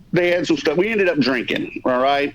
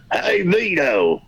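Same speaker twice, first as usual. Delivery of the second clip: long, slow hailing call; drawn-out greeting; much slower than usual. Retold or imitated. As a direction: stretch the greeting right out. Ken greets him on phone.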